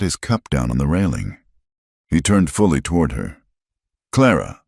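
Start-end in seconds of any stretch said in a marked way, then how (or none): 4.1-4.6 her name said with weight and warmth; weighty warm name, a little higher. A narrator's reading. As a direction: say her name like it means home. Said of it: "with a weight and a warmth".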